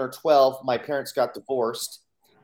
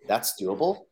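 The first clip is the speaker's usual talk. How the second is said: "That's doable?" as a rising, incredulous question; disbelief; 4 semitones lower, slower than usual. Retold or imitated. Kid echoing the coach in surprised disbelief, rising question. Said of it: "I'm like".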